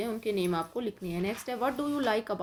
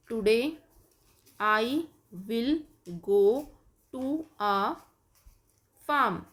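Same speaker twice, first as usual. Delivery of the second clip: today I will go to a farm, word by word with gaps; slow dictation; 4 dB louder, much slower than usual. Shown as a demonstration. Teacher dictating example sentence, slow and spaced. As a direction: dictate each word slowly. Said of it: "जैसे आप बनाएंगे".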